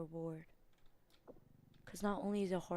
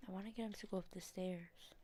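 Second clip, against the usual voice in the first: whispering; 9 dB quieter than usual. Real, not acted. Hiding, plotting in whisper.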